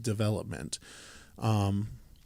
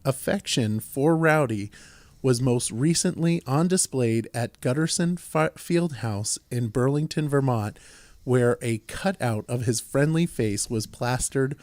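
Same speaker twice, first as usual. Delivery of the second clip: measured, projected proclamation reading; formal resolution reading. Real, not acted. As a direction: read it out as an official tribute. Reads out a resolution.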